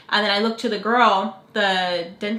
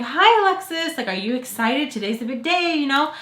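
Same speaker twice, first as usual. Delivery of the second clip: imitating an excited greeter, high at the start; mock peppy welcome; pumped-up greeting; 3 semitones higher than usual. Dental staff greeting a nervous patient, pumped up. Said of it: "they get me all pumped up".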